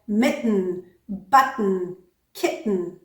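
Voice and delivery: "mitten, button, kitten" without tapping the t; t not flapped. Shown as a demonstration. Teacher showing the exception, "mitten, button, kitten" with unflapped t. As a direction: keep "button" free of any d-like flap before the n. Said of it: "that t does not change".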